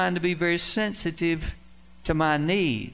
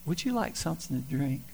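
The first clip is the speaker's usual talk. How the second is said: sweet soft voice; 5 dB quieter than usual. Retold or imitated. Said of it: "that sweet little voice".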